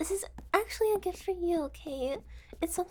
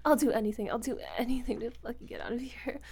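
desperate begging; 4 semitones lower than usual. Acted. Captive begging.

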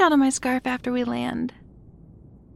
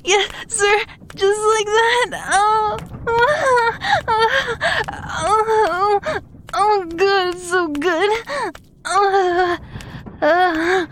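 higher, moaning and out of breath; overwhelmed, voice pitched up; breathless climax; 5 semitones higher, slower than usual. Acted. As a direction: gasp the words out between moans. Acted climax of intimate scene.

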